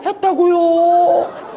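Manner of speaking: ordinary talk, nothing marked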